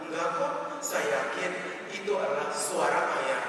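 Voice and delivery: mildly wounded, quiet insistence; nearly tearful wife. Retold or imitated. Wife close to tears still contradicts husband, subdued hurt. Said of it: "hampir menangis dan berkata".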